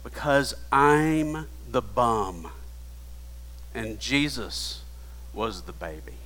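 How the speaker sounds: fading to a near-breathless hush; choked-up confession. Retold or imitated. Mother answering her husband, choked and fading. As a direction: let it break and fall away. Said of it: "all I could manage to choke out".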